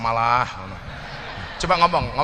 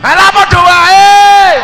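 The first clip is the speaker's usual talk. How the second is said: teriakan sangat tinggi, keras, lambat dan panjang; teriak protes; 15 dB louder, much slower than usual. Real, not acted. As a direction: berteriak protes karena jawabannya sama saja. Reacts to same-sounding answer. (teriakan kecewa yang lambat dan panjang)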